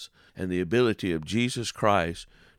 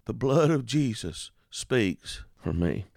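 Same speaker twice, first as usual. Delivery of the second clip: slow repeat; 2 semitones higher, slower than usual. Shown as a demonstration. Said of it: "give you the words to that song".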